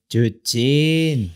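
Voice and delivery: hushed menacing call; whispered call. Retold or imitated. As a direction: whisper the kid's name like a secret summons. Calling child secretly.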